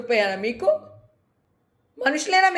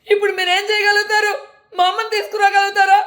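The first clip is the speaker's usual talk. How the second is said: anguished accusation; 5 semitones higher than usual. Real, not acted. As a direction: hurl the question at them, real hurt. Grieving, accusing the media. (బాధతో కోపంగా నిలదీయడం)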